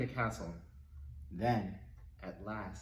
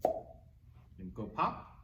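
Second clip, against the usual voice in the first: whispered cue; 2 semitones lower, much slower than usual. Shown as a demonstration. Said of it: "You make a pop sound with your mouth".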